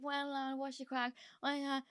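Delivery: a hint of the rapper's casual hello, held back; Mo Cara greeting her. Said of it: "He was like".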